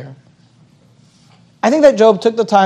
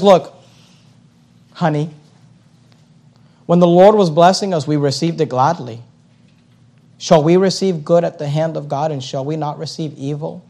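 tender husband; 3 semitones lower than usual. Retold or imitated. Job gently consoling his wife.

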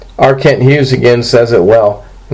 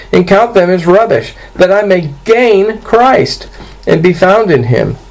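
raised-pitch, emphatic scripture reading; 7 semitones higher than usual. Acted. Preacher reading Paul's words to the congregation, lifted scripture-reading voice. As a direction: read the passage out in a lifted voice.

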